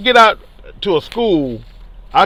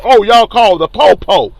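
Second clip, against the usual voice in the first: retold taunt, a bit raised; loud taunt; 3 semitones higher, 5 dB louder than usual. Man retelling his jibe in front of police, somewhat loud. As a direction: repeat the jibe for all to hear. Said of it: "I said it loud in front of them".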